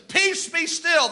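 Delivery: high, slow, ringing command; calm the storm with slow authority; commanding Jesus. Retold or imitated.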